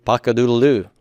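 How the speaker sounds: half-hearted mock crow; lightly sung-out rooster imitation; mild rooster crow. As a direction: play at a rooster crowing, understated. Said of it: "That's what roosters say in the morning".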